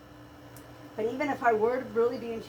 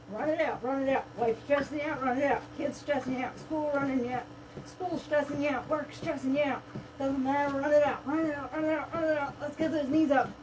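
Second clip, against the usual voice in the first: upbeat workout chant; aerobics instructor; 3 semitones higher than usual. Acted. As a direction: chant the cues like a fitness coach.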